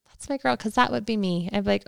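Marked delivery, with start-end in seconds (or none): 0.1-0.6 put-on "That's my girl," lifted higher and brighter; cheerful repeat. Host cheering Lisa's Diet Coke, pitched higher. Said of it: "That's when I was like".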